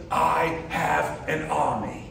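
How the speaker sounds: put-on British accent. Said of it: "Kind of like in a British accent that probably sounds a lot different".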